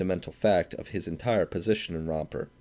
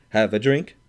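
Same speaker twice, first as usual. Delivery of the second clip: put-on rowdy drunk calling out; loud invitation; 3 semitones higher, 7 dB louder than usual. A narrator's reading. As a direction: bellow the offer across the room. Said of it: "the Swede cried".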